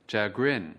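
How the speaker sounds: "Chagrin" with the weight on "grin"; stress on second syllable. Shown as a demonstration. Teacher models the word for viewers, "Chagrin" stressed on "grin". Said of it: "ở âm tiết thứ hai".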